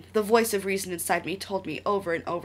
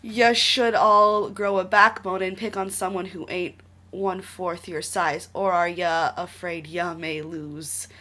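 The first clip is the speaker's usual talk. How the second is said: put-on tough street kid; 5 dB louder, slower than usual. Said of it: "My voice was certain and strong".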